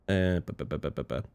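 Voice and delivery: very soft muttered syllables; hushed mumble. Real, not acted. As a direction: mumble under the breath. Hushed mumbling after being loud.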